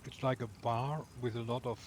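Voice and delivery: talking with a mouthful of crunchy bar; crunching while talking. Real, not acted. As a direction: chew and crunch between the words. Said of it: "You can probably hear me crunching".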